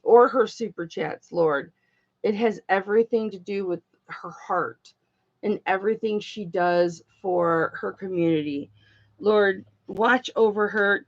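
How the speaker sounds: low-key, earnest spoken prayer; heartfelt prayer. Real, not acted. Prays aloud for the customer.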